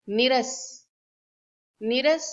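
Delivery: नीरस read as the misspelt form, short i; mock-reading the misspelt नीरस; wrong spelling read out. Shown as a demonstration. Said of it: "is a s-, wrong spelling".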